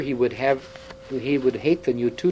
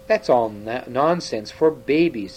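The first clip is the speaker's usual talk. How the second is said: stern. Acted. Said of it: "said the king sternly".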